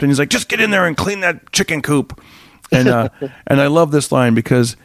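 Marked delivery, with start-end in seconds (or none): 0.3-2.2 higher-pitched, mildly exasperated order; stumped father, imitated. Stumped father to son, mildly exasperated. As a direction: give up arguing and just order it. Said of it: "Charles is kinda stumped".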